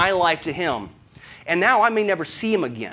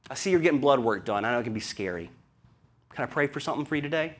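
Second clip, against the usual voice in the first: kind greeting; 4 dB quieter than usual. Pretend. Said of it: "opportunity to say".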